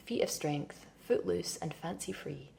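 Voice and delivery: steady, absorbed literary reading voice; a hypnotic stream-of-consciousness reading; reading aloud. Acted. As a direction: read it as one long flowing inner monologue. Reads novel extract aloud.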